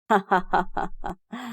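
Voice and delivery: soft chuckle; playful laugh. A narrator's reading. Father amused by his little daughter, soft laugh. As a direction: laugh lightly, fondly.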